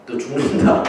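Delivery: low, lightly voiced menacing God; a hint of a threatening God, low and slow; scary warning. God warning Abimelech in a dream, mildly menacing. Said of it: "좀 무섭게 경고를 하신 거예요".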